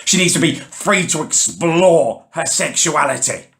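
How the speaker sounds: mocking squawk. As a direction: parrot their hippie line back in scorn. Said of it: "start squawking like a pair of demented bloody parrots".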